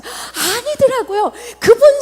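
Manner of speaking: slow, choked-up realization; crying as she admits it; tearful. Real, not acted. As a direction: let the voice break with tears. Emotional realization.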